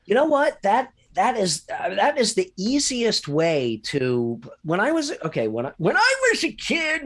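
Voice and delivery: put-on creaky old man telling a tale. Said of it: "I'm doing the old man voice again".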